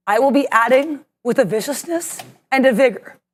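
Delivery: dramatic trailer narrator voice; eighties movie trailer voiceover. Acted. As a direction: announce it like an epic movie trailer. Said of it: "my weird eighties movie trailer voiceover".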